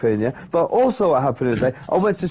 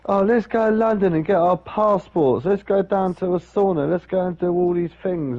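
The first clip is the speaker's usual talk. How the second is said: higher, lightly eager quoted voice; eager suggestion; 7 semitones higher than usual. Retold or imitated. Companion with cash proposing a London trip, eager. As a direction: imitate someone pitching plans.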